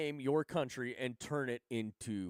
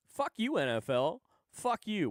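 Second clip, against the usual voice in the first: loud, higher angry "Fuck you"; angry outburst; 7 semitones higher, 5 dB louder than usual. Real, not acted. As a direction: lash out at the league. Ranting at the NFL.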